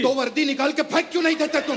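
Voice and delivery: high, heated film-hero demand; lightly hammed movie outburst; Sunny Deol. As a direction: demand it like an angry screen hero. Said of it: "आप दोबारा line बोल रहे हैं वो वाली".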